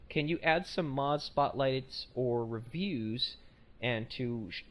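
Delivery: halting slow read; first slow attempt at the email; slow careful reading. Shown as a demonstration. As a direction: read it out slowly, word by word. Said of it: "let me try this again 'cause I fucked that up horribly".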